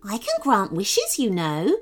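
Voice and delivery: Bubba bunny voice. Acted. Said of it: "said Bubba".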